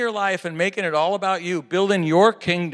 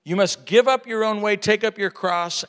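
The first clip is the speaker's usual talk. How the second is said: louder exhortation; 4 dB louder than usual. Shown as a demonstration. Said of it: "repeated louder".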